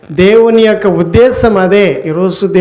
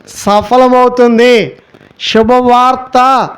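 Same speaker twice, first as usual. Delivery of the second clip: preached proclamation; 4 semitones higher than usual. Acted. Preacher announcing God's promise to the congregation, proclaiming. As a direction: proclaim it, stretching the key words.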